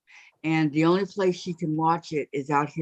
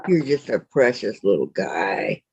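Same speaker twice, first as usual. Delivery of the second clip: cooing to a pet. Real, not acted. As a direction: croon to the little cat. Cooing to the cat.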